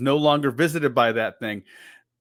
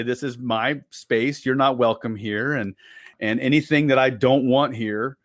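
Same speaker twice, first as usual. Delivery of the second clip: stern commanding voice; 2 semitones lower than usual. Shown as a demonstration. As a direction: order the spirit out. Demo of claiming space.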